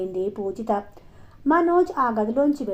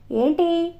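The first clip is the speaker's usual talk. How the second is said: short, higher-pitched irritated question; narrated flash of anger; angry question; 7 semitones higher, much slower than usual. A narrator's reading. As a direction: ask it crossly, pitch lifted. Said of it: "కోపంగా అడిగింది పూజిత".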